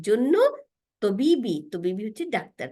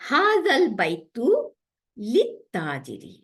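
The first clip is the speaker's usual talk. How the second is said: slow careful recitation; much slower than usual. Shown as a demonstration. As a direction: read the Arabic very slowly, word by word. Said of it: "তিন নম্বর line". (আরবি বাক্যটি খুব ধীরে ধীরে পড়ে শোনানো)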